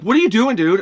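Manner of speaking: high, loud indignant yell; retold yell. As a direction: yell it at someone out of line. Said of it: "And I yell at him".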